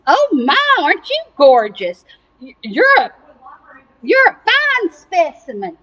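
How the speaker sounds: a hint of a gushing farmer; admiring farmer. Farmer admiring his pig, lightly acted gushing. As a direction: marvel with swooping pitch.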